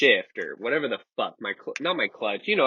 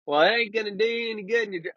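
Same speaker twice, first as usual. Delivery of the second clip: mock cop; 10 semitones higher, faster than usual. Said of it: "And he's like".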